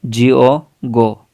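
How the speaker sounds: slow dictation of each letter; spelling for the viewer. Shown as a demonstration. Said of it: "जैसे मैं आपको लिखता हूँ गो".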